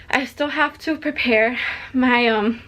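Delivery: slow, breathless and winded; struggling for air mid-sentence; out of breath. Real, not acted. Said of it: "I'm so out of breath".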